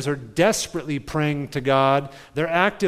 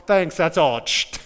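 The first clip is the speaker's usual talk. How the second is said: mock airline captain over a crackly PA, clicking the mic; playful pilot announcement voice with radio clicks; an airline pilot speaking to passengers over the intercom; 3 dB louder than usual. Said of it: "Captain comes on, it's like".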